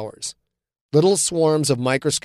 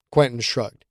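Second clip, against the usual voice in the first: ordinary delivery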